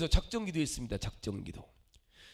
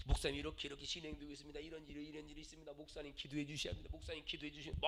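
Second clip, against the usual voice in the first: hushed earnest plea; 10 dB quieter, much faster than usual. Retold or imitated. Deacon pleading quietly with pastor.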